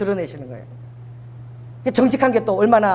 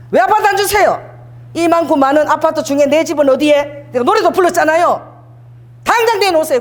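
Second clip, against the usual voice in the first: retold complaint; 3 semitones higher than usual. Pastor reenacting arguing with God over an apartment, insistent demand. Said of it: "따졌어요".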